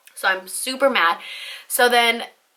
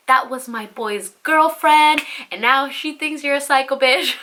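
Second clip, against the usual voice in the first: raised-pitch mock indignation; retold accusation; 4 semitones higher than usual. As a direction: imitate an ex throwing the blame back. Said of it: "he was flipping that shit on me".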